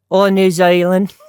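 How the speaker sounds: slow, loud try at a Kiwi accent; rough New Zealand accent, drawn out; attempted New Zealand accent. Shown as a demonstration. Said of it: "trying to do an accent".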